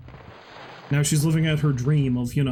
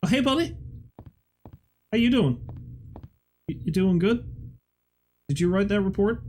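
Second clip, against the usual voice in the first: higher, singsong chummy hello to a dead guy; mock friendly greeting; 6 semitones higher than usual. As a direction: greet the corpse like an old pal. Greeting a corpse in game.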